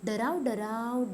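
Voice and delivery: slow sing-song recital of डराव, डराव; drawn-out classroom poem voice; poem recitation. Shown as a demonstration. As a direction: recite it slowly like a rhyme to children. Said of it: "okay, चला".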